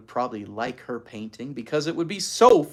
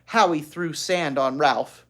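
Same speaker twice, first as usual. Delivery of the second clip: put-on little girl; 3 semitones higher, 7 dB louder than usual. Ramona's complaint.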